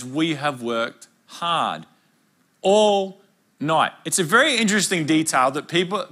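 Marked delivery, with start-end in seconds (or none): 0.0-3.9 slow, drawn-out and tired; slow weary quote. Retold or imitated. Peter tells Jesus of the night's labour, slow and weary. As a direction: drag it out like an exhausted fisherman. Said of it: "And Peter says".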